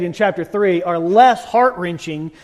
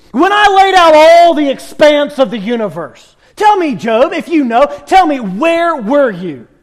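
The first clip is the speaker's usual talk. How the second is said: God challenging Job; 3 semitones higher, 5 dB louder than usual. Retold or imitated. God presses Job for an answer, loud and insistent. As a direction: demand an answer with weight on tell. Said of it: "And God goes".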